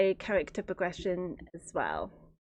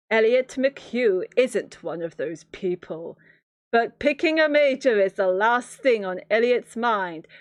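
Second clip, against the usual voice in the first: YA movie trailer narrator. Acted. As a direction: sell the blurb like a teen movie trailer. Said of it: "What do Y A movie trailer narrators sound like?".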